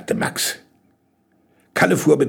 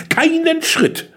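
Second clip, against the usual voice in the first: put-on high, drawn-out girl's refusal; slow, high-pitched insistence; emphatic refusal; slower than usual. A narrator's reading. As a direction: refuse to budge, stretching the words. Jenny refuses to walk in darkness.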